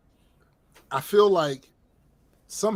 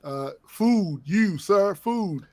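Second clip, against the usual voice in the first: mock caveman begging; 2 semitones higher, slower than usual. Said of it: "sounding like Captain Caveman and shit".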